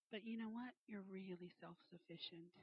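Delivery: hushed imitation of a gentle whisper in the ear; retold whisper. The Lord speaks in her ear, retold whisper. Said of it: "he whispers".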